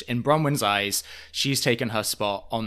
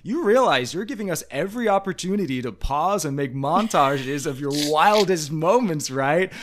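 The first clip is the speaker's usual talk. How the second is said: dry host voice; 5 semitones higher than usual. Retold or imitated. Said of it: "he literally goes".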